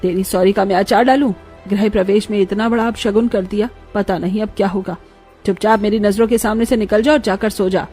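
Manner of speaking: understated acted anger; angry mother-in-law. Mother-in-law sending bride away, mildly angry scolding. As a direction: dismiss her with a scornful scolding. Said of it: "माँ अभी बहुत गुस्से में है".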